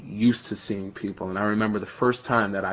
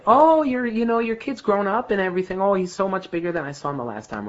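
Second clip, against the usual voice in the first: high, gushing neighbour voice, much higher; 10 semitones higher than usual. Retold or imitated. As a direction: coo it like a nosy neighbour meeting a grown kid. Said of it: "you know how people here say".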